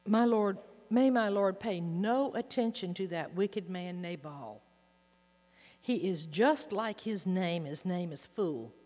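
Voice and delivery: loud, pleading scripture reading; impassioned plea. Acted. Preacher reading Abigail begging David for mercy, loud and pleading. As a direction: cry out Abigail's plea to the king.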